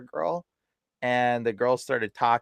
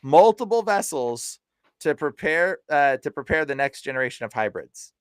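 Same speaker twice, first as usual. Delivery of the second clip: quoting the demon; 2 semitones higher, 3 dB louder than usual. Retold or imitated. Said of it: "That's what she said".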